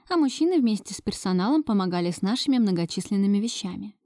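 usual speaking voice

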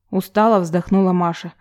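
plain reading voice

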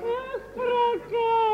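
playful scolding. Acted. Тётка кокетливо журит Паратова.

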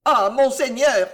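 high, loud cry of gratitude; acted fervent outburst; exclaiming. A narrator's reading. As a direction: cry out, overcome with relief. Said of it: "s'écria l'intendant".

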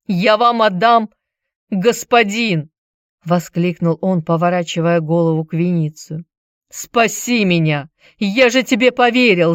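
cling to your master, pleading; desperate pleading. Acted. Chilon begs Vinicius to save him, frantic pleading.

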